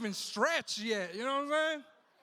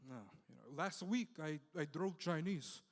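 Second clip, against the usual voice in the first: taxi driver; 3 semitones lower, 6 dB quieter than usual. Retold or imitated. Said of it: "Then he goes".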